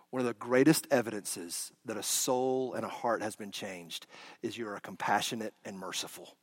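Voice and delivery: very soft, reverent sermon voice; gentle, intimate storytelling from the pulpit; hushed preaching. Acted. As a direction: draw the listeners in with a hush.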